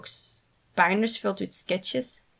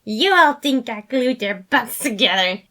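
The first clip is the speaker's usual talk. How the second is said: laughing; 3 semitones higher, 8 dB louder than usual. A narrator's reading. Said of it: "he burst out laughing".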